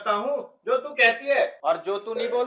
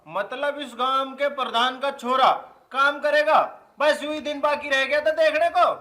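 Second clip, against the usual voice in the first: raised, affronted protest, building in force; indignant boasting; 3 semitones higher, 4 dB louder than usual. Acted. Village head's son protesting to wife about working, indignant. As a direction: puff up with wounded pride, getting louder. Husband indignant at being told to work.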